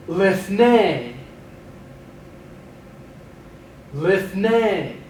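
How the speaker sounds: Lifnei said slowly, falling at the end; Hebrew vocab drill. Shown as a demonstration. Teacher drills vocabulary for students to repeat, clear model. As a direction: model Lifnei for the class to echo. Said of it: "I'll say it, pause for you to repeat it".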